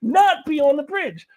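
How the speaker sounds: high-pitched exasperated shouting rant; losing control. Real, not acted. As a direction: yell it in outraged disbelief, voice way up high. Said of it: "I'm losing control again".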